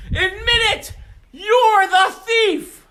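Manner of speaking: loud, high demand; furious accusation. Acted. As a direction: nail him with it. Rabbi confronts the thief.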